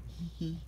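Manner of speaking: small, high, soft giggle; dainty acted tee-hee. A narrator's reading. Lady amused after saying good night, light giggle. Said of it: "Lady giggled".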